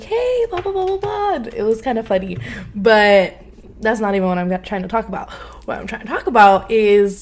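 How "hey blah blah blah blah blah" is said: high mocking guy voice, blah blah; high teasing impression of an ex; mock guy hitting on her. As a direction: lightly mimic a guy trying his luck. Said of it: "a few of these guys actually did come up and be like".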